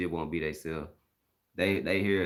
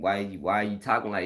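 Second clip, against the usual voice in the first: raised, louder retold challenge; mad; 4 semitones higher, 6 dB louder than usual. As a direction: challenge a friend, getting worked up. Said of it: "it's made, making me mad".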